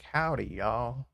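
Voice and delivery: drawled mock American "howdy"; British-person American accent. Streamer mimicking British people faking American accents, mock American drawl. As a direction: lightly imitate a Brit attempting American. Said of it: "British people doing American accent".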